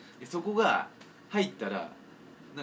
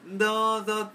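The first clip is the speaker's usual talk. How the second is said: put-on old man's "douzo"; 7 semitones higher, 4 dB louder, slower than usual. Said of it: "おじさんのなんか".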